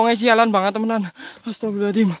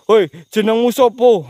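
stern interrogation; 4 dB louder than usual. Real, not acted. Interrogating the ghost.

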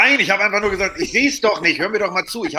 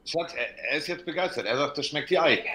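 leise beiseite; 9 dB quieter than usual. Real, not acted. Tells wife aside quietly.

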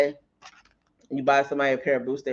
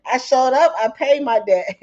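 louder; 9 semitones higher, 7 dB louder than usual. Real, not acted. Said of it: "repeats louder".

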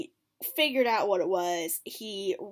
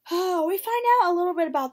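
excited whisper; 9 semitones higher, 8 dB louder, faster than usual. Real, not acted. Excited gossip aside.

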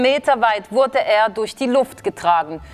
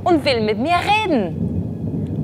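excited frog; 6 semitones higher than usual. A narrator's reading. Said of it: "geriet ganz aus dem Häuschen vor Freude".

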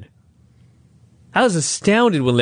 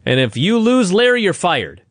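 mock Russo; 6 semitones higher than usual. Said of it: "Russo says".

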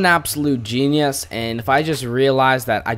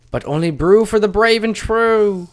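high, loud tavern-crier voice; silly put-on voice; 9 semitones higher, 6 dB louder than usual. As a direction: belt it out in a hammed-up high voice. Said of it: "I don't know why I'm making this voice".

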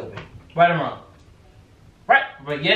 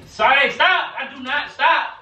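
high, urgent pleas to stop her; begging her frantically to stay away; frantic pleading; 7 semitones higher, slower than usual. Real, not acted. The speaker blocking the closet, begging Sade to stop, frantic and high.

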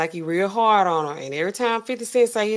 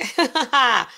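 mock villain laugh; 3 semitones higher than usual. Acting a rapper's laugh before threatening.

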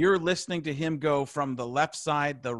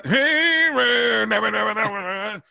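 much higher, louder hyped-up stage voice; high excited concert-crowd holler; concert guy impression; 7 semitones higher, 7 dB louder, slower than usual. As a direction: belt it like a fired-up guy at a concert. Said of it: "You're doing, like, the, from the concert".

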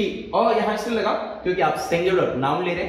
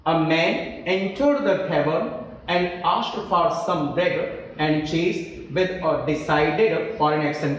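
slow, measured reading of the same sentence again; teacher rereading the sentence for the class slowly; slow dictation; much slower than usual. Shown as a demonstration. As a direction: read it word by word, unhurried, for the class.

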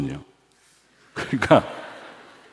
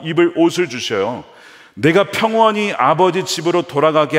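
Jacob's vow; 6 semitones higher than usual. Acted. Preacher reads Jacob's vow aloud.

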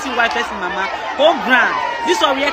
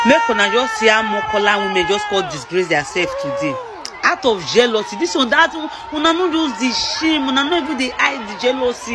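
indignant rant. Real, not acted. Angry Pidgin rant at traders.

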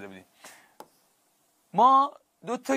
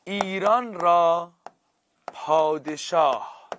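slow demo reading; 2 semitones higher, slower than usual. Shown as a demonstration.

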